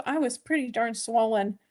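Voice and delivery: talking with hair in mouth; words through a strand of hair in mouth. Real, not acted. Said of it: "Sorry, I still have Malibu hair in my mouth".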